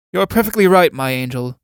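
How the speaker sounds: mock sweet agreement. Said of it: "my cue is to retort".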